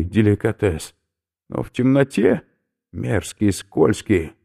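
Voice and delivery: he is about to throw up; queasy skinhead. Acted. Oberführer warns professor he will vomit, loud and gruff.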